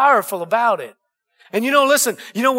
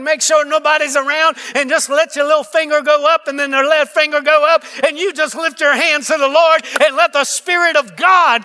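preaching at full force. Acted. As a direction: drive it home to the congregation.

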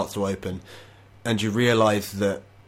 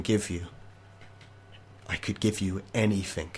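softer, coaxing offer from a man who can buy anything; quiet bargaining villain; 5 dB quieter than usual. Acted. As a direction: tempt him quietly. Mathias bargains for the horse.

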